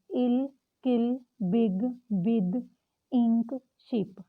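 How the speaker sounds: "किल", "शिप" said slowly with a short i; sounding out short i words. Shown as a demonstration. Teacher drills short i words slowly. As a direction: model the short i, word by word. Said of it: "आई as a ई".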